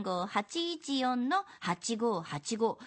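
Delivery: dictating. Acted. メモしてくださいね.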